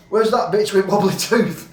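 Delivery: put-on drunk punchline yell. Drunk punchline, staggering up stairs.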